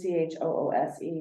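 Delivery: "C H O O S E" spelled letter by letter; each letter of "C H O O S E" said alone. Shown as a demonstration. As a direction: spell out "C H O O S E" plainly. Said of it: "and then choose".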